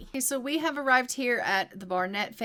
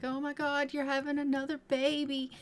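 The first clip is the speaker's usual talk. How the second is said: higher, panicky husband voice; hammed-up alarm at another baby; mock freaking out; 6 semitones higher than usual. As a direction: play a husband losing it over the news. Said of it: "Theo is freaking out".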